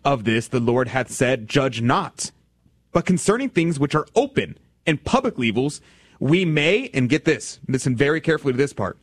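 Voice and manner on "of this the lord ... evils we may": solemn reading. Acted. Reading St Augustine aloud.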